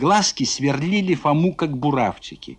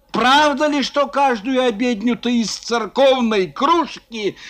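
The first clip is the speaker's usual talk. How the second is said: accusing rant; 6 semitones higher than usual. Acted. Foma accuses Zubov.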